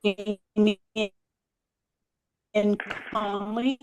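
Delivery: breaking-up phone audio; words chopped by a bad connection; glitchy robotic call. Real, not acted. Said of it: "audio is breaking up".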